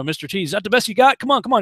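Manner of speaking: fast, high mock taunt; Rocky taunting. Rocky taunts Clubber Lang in the ring, fast mock jeer. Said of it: "Rocky's taunting".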